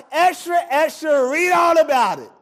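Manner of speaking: newsboy calling out; rapid old-time reporter. Retold or imitated. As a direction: shout it like a paperboy. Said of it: "The newspaper boy used to be outside".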